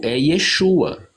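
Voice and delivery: "Yeshua" said slowly, ye-SHU-a; Hebrew name. Shown as a demonstration. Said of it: "em hebraico". ("Yeshua" em hebraico, devagar)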